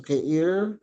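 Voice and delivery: "keir" lifted on the accented vowel; rising demonstration of "keir". Shown as a demonstration. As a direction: let "keir" climb in pitch. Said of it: "kung saan yung vowel".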